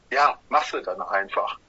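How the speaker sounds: low, matter-of-fact shrug; resigned acceptance. Retold or imitated. Band member shrugging off a tour challenge, resigned acceptance. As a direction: drop the pitch and just accept it.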